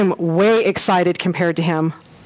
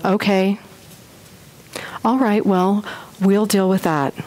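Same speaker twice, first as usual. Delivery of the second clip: mock calm; 2 semitones lower than usual. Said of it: "take Jonathan Edwards' personality".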